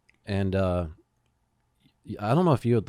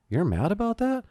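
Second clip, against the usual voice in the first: friend's puzzled reply; 11 semitones higher than usual. Retold or imitated. Friend's surprised reply, voiced.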